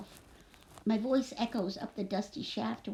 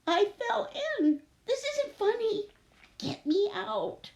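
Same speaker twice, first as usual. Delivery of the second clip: high, slow, whiny plea; crying; 10 semitones higher, slower than usual. Acted. Trapped girl begging to get out, crying. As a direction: wail it up to them, acted upset. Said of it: "I'm crying now".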